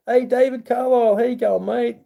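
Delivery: high bright hello, pitched well up; upbeat high call of hey; cheery viewer greeting. Real, not acted. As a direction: sing out a welcome to a new viewer.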